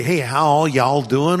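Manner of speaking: slow, mock Texas drawl; Texas accent. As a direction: put on a Texan "y'all" greeting. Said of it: "people in Texas".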